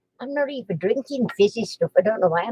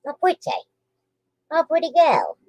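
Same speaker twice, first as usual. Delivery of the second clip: high cooing praise for the dog; pet talk; 5 semitones higher than usual. Real, not acted. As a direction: coo at a pretty pup.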